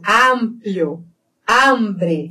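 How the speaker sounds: "Amplio" and "Hambre" with open a; open vowels. Shown as a demonstration. Teacher showing Spanish, open a. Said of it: "sempre aberto".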